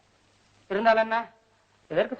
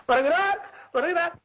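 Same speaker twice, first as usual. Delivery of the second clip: high, rising call; excited announcement; 5 semitones higher than usual. Acted. Waiting poet spots the minister coming, excited announcement. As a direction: call out the arrival, pitched up.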